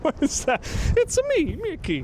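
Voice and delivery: high-pitched cartoon mascot voice; piping, very high mascot greeting; cartoon mouse. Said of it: "Mickey and Mario".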